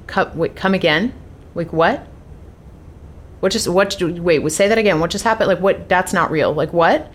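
re-enacted stammering confusion, asking for a repeat; halting, baffled questions, as if replaying the shock; stunned disbelief. Wife hearing from husband that the buyer backed out, stunned.

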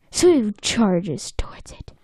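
hushed suspense. Acted.

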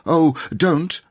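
high, loud sudden protest; alarmed cry. Acted. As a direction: cry out to stop it. Robert cries out to stop wish.

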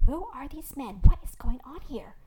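stern, indignant questioning; sharp demand. A narrator's reading. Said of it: "she said sharply".

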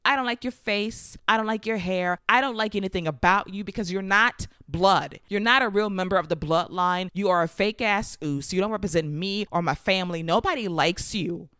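a touch of heated anger, mostly in own voice; fired-up retort. Retold or imitated. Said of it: "Jey fires up saying".

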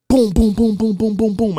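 high mock knocking sounds; imitated door knocking.

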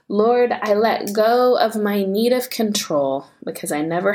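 measured, earnest prayer with long pauses. Real, not acted. Mother surrendering her children to God, earnest prayer. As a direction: pray it out deliberately, phrase by phrase. Prays aloud, surrendering control.

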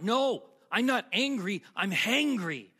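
mock exasperated correction; mad cousin. Hungry cousin correcting confused relative, mock exasperated. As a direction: act out an irritated cousin insisting. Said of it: "She's getting mad at me".

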